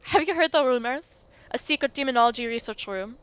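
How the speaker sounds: put-on light French accent, sly and teasing; a mild French ghost, coy. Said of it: "the accent".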